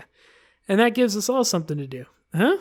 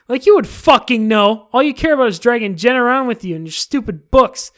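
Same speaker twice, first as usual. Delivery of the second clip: angry insult; 5 semitones higher, 9 dB louder than usual. Acted. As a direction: spit the insult at her rival. Natsuki insulting Yuri.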